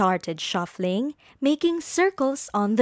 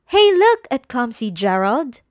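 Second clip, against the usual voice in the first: mocking taunt; 2 semitones higher, 5 dB louder than usual. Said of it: "the animals all laughed".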